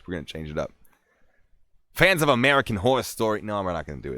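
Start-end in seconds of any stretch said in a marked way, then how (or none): 1.9-3.4 higher, hammed-up New York accent; put-on New York story voice; attempted accent voice. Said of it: "gonna do it in a voice".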